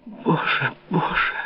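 soft, high, whispered cry; anguished whisper. A narrator's reading. Louise, in despair before the king, whispering.

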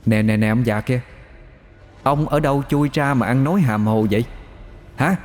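scoffing retort rising at the end; mocking challenge. Demon sneers at Sáu. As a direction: taunt the old man. Demon mocks old man.

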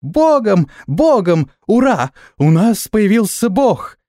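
high-pitched gleeful cheering; excited clamour. A narrator's reading. Little flyers celebrate their new god, clamouring excitedly. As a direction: cheer like a swarm of tiny creatures. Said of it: "Загомонили летуны".

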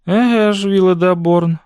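high, somewhat hard-edged reply; slightly callous tone. A narrator's reading. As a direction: answer him with a touch of coldness. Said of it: "черствуватим тоном сказала вона". (черствуватий тон, високим голосом)

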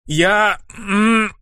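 high, halting bleat with a catch in the voice; bleating stammer. A narrator's reading. Caught-out boy bleats to his brother, stammering. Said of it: "проблеял парень".

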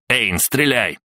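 urgent shouted order. Acted. Ludwig ordering Einar to fire, crying out.

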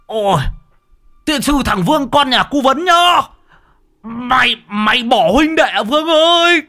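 very high frantic cries for help; shrill panicked help call; desperate scream. Acted. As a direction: scream after the fleeing boy. Abandoned in river, screaming.

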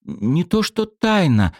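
halting, high hesitation; girl hesitating over a secret; hesitant. A narrator's reading. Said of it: "замялась Светка".

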